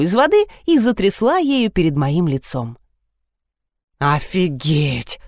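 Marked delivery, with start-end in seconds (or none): 4.0-5.2 very slow, low stretched drawl; drawled again. A narrator's reading. Seryozha repeats his reaction, lower and slower drawl. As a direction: drag it out even lower in disbelief. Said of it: "повторил Серёжка".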